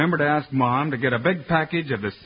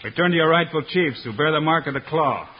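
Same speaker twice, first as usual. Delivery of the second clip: formal proclamation. Acted. Hero addresses the tribe.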